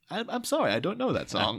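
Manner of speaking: softly imitated apologetic assistant. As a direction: give a mock automated apology. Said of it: "The computer aid that is in the house".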